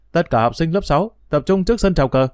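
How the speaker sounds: high, carrying school announcement; loudspeaker announcement. Acted. School loudspeaker summoning sixth graders, announcer voice. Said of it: "tiếng thông báo phát ra từ cái loa".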